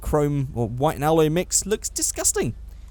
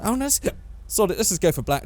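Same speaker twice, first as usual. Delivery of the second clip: hiccuping; 3 semitones higher, faster than usual. Real, not acted. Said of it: "Don't know why I'm hiccuping".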